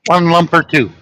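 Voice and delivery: put-on posh accent. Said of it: "I try to say it like the posh people say it".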